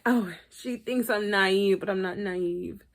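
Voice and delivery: mock whiny John. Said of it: "John was like".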